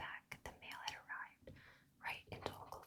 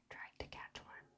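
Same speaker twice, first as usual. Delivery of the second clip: plain reading voice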